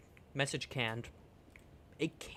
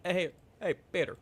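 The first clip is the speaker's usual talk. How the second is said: calling out; 4 semitones higher than usual. Acted. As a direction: shout the name to get attention. Calling out to Peter.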